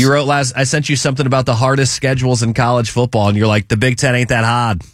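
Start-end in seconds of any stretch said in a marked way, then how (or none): 3.7-4.8 put-on lightly done Boston accent; a hint of Boston accent, unbothered. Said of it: "that's exactly how I read it".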